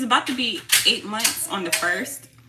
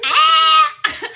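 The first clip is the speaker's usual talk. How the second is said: loud high shriek; short, loud squeal; excited scream; 6 semitones higher, 10 dB louder than usual. Real, not acted. Shrieks at shared age.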